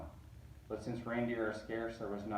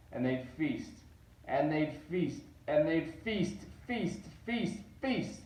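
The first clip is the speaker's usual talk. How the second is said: each feast higher until a squeaky top; climbing feast; 5 semitones higher than usual. A narrator's reading. Narrator mimicking the Whos' endless feasting, climbing high. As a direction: ramp up the pitch on every feast.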